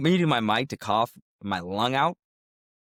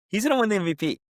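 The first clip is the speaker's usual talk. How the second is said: much higher, laughing and gushing; giddy excitement; 9 semitones higher than usual. Real, not acted. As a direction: gush like an overjoyed fan. Overjoyed about Drake Maye.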